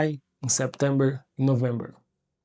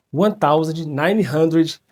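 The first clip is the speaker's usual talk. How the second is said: slow, careful English year; 6 dB louder, slower than usual. Shown as a demonstration. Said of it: "Muito difícil falar".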